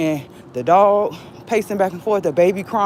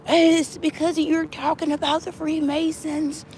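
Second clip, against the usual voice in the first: mocking; 10 semitones higher, 4 dB quieter than usual. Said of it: "and they".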